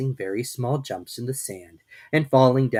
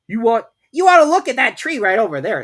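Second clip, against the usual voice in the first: louder, insistent rabbit; Rabbit's voice; 13 semitones higher, 13 dB louder than usual. A narrator's reading. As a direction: urge her to look away. Rabbit urges Kanga to look.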